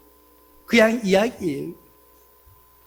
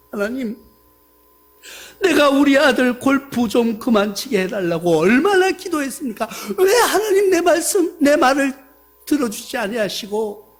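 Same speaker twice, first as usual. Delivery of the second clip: exasperated protest to God. Retold or imitated. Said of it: "반문하는 거예요".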